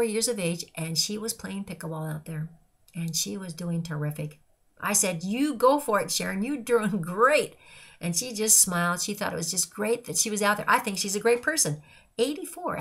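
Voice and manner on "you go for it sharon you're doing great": rooting for her like a fan courtside; cheering on. Retold or imitated. Cheering an eighty-four-year-old pickleball player, louder with a laugh.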